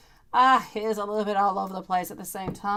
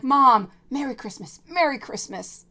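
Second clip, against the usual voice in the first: son's parting greeting; 5 semitones higher, 6 dB louder than usual. Retold or imitated. Son leaving, repeating greeting.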